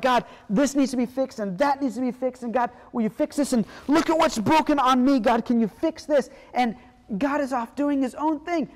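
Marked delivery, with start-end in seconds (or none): 0.0-6.3 louder, urgent pleading; pleading prayer. Retold or imitated. People loudly pleading with God to fix things. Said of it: "we're like".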